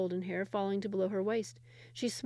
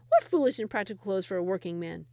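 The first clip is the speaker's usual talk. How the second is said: mocking; 5 dB louder than usual. Peasant mocks the clothes.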